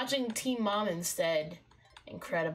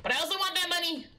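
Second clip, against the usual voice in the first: excited greed; 7 semitones higher, much faster than usual. Real, not acted. Torn between pet and money, fast excited outburst. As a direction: blurt it out, giddy and greedy.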